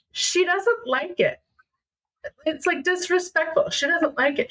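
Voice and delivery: mildly acted teenage protest; retold earnest protest. Retold teen pleading with mom.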